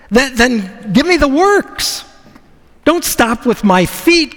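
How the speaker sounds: grab the whole bath, no holding back; eager all in. Retold or imitated. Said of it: "Peter says".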